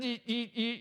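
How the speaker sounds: short repeated high "ee" noises; imitated buffering stutter. Preacher mimics bad Wi-Fi, high stuttering glitch noise. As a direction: mimic a movie sticking as it loads.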